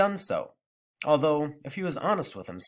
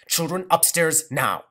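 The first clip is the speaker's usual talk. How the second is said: firm order; 4 semitones higher, 5 dB louder, slower than usual. Acted. Mother clapping orders.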